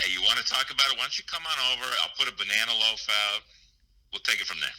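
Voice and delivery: East Coast tough-guy accent; Sopranos-style East Coast accent. Real, not acted. Caller invites his neighbor over, Sopranos-style East Coast accent. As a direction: talk like an East Coast mob-show heavy. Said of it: "like some kind of East Coast Sopranos guy".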